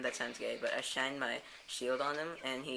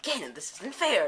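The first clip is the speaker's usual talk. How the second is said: put-on louder, slow childish complaint; indignant protest; 6 semitones higher, 7 dB louder than usual. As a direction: whine that it's unfair. Protesting to villain in story.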